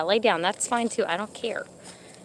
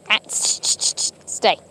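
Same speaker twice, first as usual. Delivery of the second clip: shushing whisper; 4 semitones lower than usual. Real, not acted. Hushing the dogs to stay.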